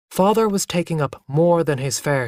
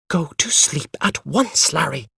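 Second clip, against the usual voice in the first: a stern hushed order; mother whispering sharply to her son; 3 semitones higher than usual. A narrator's reading. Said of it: "she said sharply".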